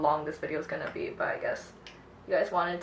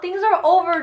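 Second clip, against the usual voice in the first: much higher, louder mocking tone; high sing-song mock scolding; 12 semitones higher, 6 dB louder than usual. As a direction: belittle him for crying. Mocking ex's crying.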